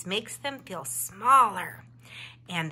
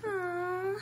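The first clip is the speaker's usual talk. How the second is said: disappointed aw; 9 semitones higher, 3 dB quieter than usual. A narrator's reading. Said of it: "Murray stopped skipping and sighed".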